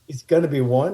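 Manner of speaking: rising, puzzled question on gonna; incredulous echo. Retold or imitated. Actor repeats a strange cameo request, incredulous. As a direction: repeat it back as if you can't believe it. Echoing the odd request in disbelief.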